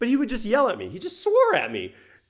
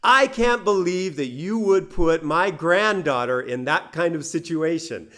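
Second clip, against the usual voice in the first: mildly raised scolding voice; mock scolding yell; 2 semitones higher, 4 dB louder than usual. Father scolding about his granddaughter on the phone, mild mock yell. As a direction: imitate a dad telling off his grown child. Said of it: "the way that he yelled was quite funny".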